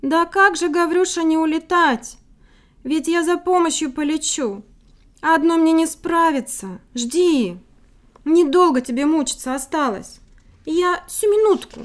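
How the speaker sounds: high, loud chirping bird; cartoon princess. A narrator's reading. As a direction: chirp it bright and eager. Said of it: "прощебетала".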